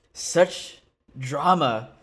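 slow, drawn-out mock grandeur; mock theatrical. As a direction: savour the words as if announcing a stage play, slow.

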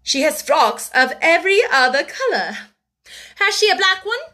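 high, loud, biting demand; fierce interrogation. A narrator's reading. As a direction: press her angrily. Angry sister interrogating the other.

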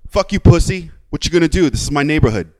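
loud, cocky taunt from a truck driver; aggressive retort. Retold or imitated. Gas station guy taunting the narrator, loud and cocky. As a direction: sneer it like a bully claiming his turf. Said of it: "And he looks at me and goes".

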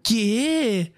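high-pitched diva complaint; mock a jealous goddess scolding her admirers; offended goddess. Voicing indignant, jealous goddess Amaterasu.

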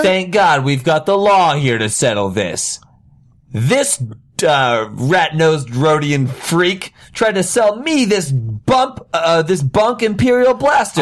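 high, theatrical accusation; hammed-up outrage, rising in pitch; indignant complaint. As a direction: denounce the seller to the authorities. Acted complaint to the law.

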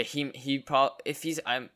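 flustered false starts; stuttering. Real, not acted. Co-host lost for words about the Kanye situation, stuttering. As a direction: stumble over words, abandoning each attempt. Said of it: "I'm stuttering so much".

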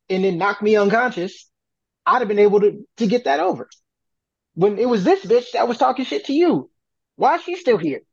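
retelling his protest with exasperation; indignant retort. Retold or imitated. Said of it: "I'm like".

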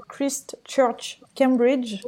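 English name said with a French accent. Real, not acted. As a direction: Christ Church Cambridge in a French accent. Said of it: "Désolée pour mon accent". («Christ Church Cambridge» prononcé avec l'accent français)

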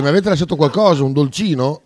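laughing while imitating; mocking with a laugh; emphatic italian speech. Mocks colleague's request, laughing.

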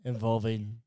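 measured, deadpan announcement with pauses; halting formal declaration; mock official statement. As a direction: read it out like a solemn legal statement.

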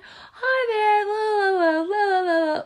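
high, loud, sing-song customer service voice; chirpy overly polite phone manner. Shown as a demonstration. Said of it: "go into this epic customer service voice".

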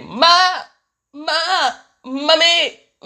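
put-on high, insistent kid yelling Ma; child calling mom. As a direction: whine for mommy over and over like a toddler. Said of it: "but my baby".

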